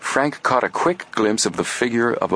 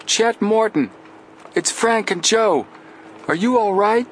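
calling out; 14 semitones higher than usual. Acted. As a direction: shout across the water to a friend. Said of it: "making a trumpet of his hands".

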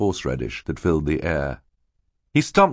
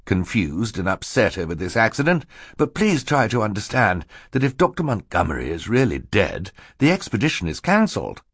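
higher, earnest appeal; reasoning banker; 3 semitones higher than usual. Acted. Mister Poe reasons with Klaus, earnest. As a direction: explain firmly to a child.

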